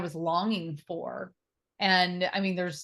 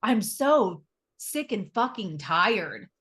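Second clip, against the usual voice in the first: retold crying; 2 semitones higher, 3 dB louder, slower than usual. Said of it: "and I'm crying 'cause I'm like".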